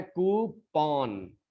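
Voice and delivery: "कूपन" said koo-PON, long oo and open final -on; updated pronunciation. Shown as a demonstration. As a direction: stretch "कूपन" into koo-pawn. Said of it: "उसको बोले जाने लगा है".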